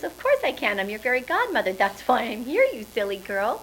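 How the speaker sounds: cheerful, loving fairy godmother. Acted. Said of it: "And she says".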